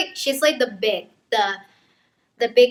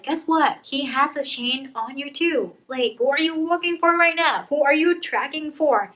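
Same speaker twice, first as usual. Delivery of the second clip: mildly heated, higher-pitched comeback; indignant, pitch-raised challenge; mad retort; 3 semitones higher than usual. Acted. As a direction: throw the questions back in an acted argument. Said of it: "Alina gets really mad".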